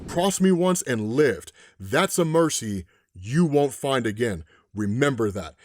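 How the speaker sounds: drawn-out threat that drops low at the end; menacing warning. Retold or imitated. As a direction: deliver a measured, ominous warning. Man in white warns the hunter.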